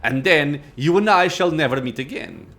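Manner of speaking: proud, imperious lich; arrogant lich. Acted. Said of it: "Arrogance rings in the lich's voice".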